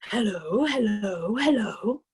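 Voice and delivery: a parrot's human-like hello. A narrator's reading. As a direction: mimic a talking parrot. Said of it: "the parrot said".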